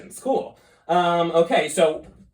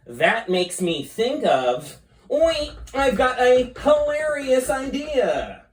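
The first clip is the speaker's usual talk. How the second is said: scheming squid voice; 4 semitones higher than usual. Acted. Squizzard talks to himself.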